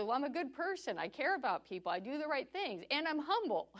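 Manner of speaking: mock boast tipping into laughter; mock self-righteous. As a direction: list virtues proudly, cracking up by the end. Mimicking man's boast of goodness.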